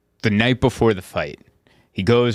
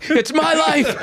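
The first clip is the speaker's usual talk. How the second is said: high, tearful comic squeal; hammed-up blubbering defiance; mock crying. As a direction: plead it desperately through laughter. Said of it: "You're crying like".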